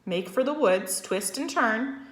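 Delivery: high, loud commanding calls; goose crying orders. A narrator's reading. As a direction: bark quick directions at the pig. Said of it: "cried the goose".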